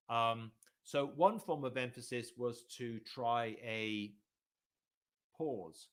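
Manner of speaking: demonstrating a pause for emphasis; pause before the word. Shown as a demonstration. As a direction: hold a long pause right before pause. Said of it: "You wait for a second before you say the word".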